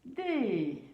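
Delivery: "Re-gar-, des" split by long pauses; syllable by syllable. Shown as a demonstration. Teacher sounding out the word regarder for pupils, syllable by syllable. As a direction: break "Re-gar-, des" into three drawn-out syllables. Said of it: "le mot regarder".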